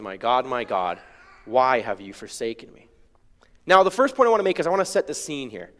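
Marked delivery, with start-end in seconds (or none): 0.0-2.9 subdued anguish. Shown as a demonstration. Preacher quoting Jesus' powerful words, in subdued anguish. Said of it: "pain and anguish and suffering".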